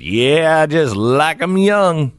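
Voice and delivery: joking to the nosy woman, a lightly hammed-up creep; creepy joking boast. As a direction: play the creep for a laugh, a hint of a leer. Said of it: "it would be really funny if I said".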